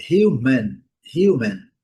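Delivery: "human" with a light h, yoo sound; "human" dito hiumen; English human. Shown as a demonstration. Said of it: "O H com som de R". ("human" com H aspirado e iu)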